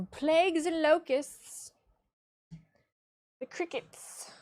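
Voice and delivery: loud, high, slow biblical doom preaching; hammed-up fire-and-brimstone prophet; mock doomsday prophet. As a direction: thunder out the plague prophecy like an old-time preacher.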